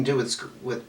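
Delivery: real stumble, catching on "with" and restarting; stumbling over words. Real, not acted. Reader explaining her off energy to the client, stumbling over words. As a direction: trip on "with", then say it over. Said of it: "I did it again".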